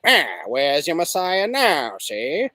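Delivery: a light hint of an old gangster movie drawl, slowed; lightly voiced old-time gangster sneer; Edward G. Robinson impression. Imagining the son doing his father's voice, a light old gangster impression. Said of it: "would do his father's voice and be like".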